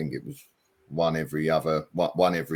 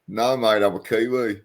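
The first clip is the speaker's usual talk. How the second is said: higher, louder, badly imitated Kiwi accent; terrible Kiwi accent; 5 semitones higher, 5 dB louder than usual. His kids answering strangers, in a bad Kiwi accent. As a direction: attempt a Kiwi accent and miss. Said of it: "So terrible Kiwi accent".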